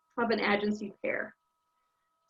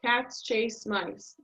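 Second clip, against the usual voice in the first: cats, chase and mice each stressed, slow; slow stressed words; much slower than usual. Shown as a demonstration. Teacher demonstrating stress timing to students, slow. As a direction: give each word of "Cats chase mice." its own beat. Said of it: "I speed up those other words".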